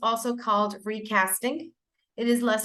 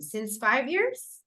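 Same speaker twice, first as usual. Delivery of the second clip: "Since" stressed in a slow rising question; slower than usual. Shown as a demonstration. Teacher repeats student's error as a question, stressing since. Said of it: "you repeat the error and you just make a question".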